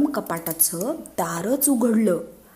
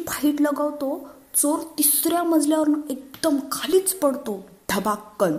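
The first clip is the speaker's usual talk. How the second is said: put-on lightly raised child voice, bragging; boastful child; 4 semitones higher than usual. Schoolboy boasting to friends, lightly higher bragging voice. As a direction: brag like a schoolboy about his dad. Raju brags about father.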